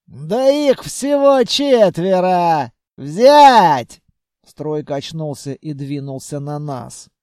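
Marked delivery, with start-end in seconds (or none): 0.1-4.0 slow, loud, angry command; angry shout. Acted. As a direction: bark the order at the soldiers. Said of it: "зло рассмеялся".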